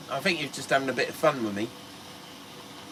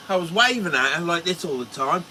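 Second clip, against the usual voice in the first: ordinary delivery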